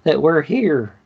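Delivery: lightly voiced Southern host; mock Southern guide. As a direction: hawk tea like a country bumpkin. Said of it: "talk with an accent".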